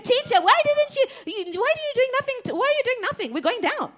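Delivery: high, loud, frantic plea; panicking disciples. Acted. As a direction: yell over the storm in a panic.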